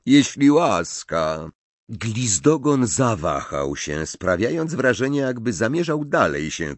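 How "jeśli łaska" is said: sneering fake courtesy; mocking. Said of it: "uśmiechając się drwiąco".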